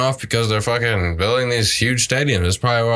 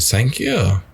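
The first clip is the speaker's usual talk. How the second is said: put-on Asian accent; 3 semitones higher than usual. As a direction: thank you in an Asian accent. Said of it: "I did not mean to put an Asian accent on that".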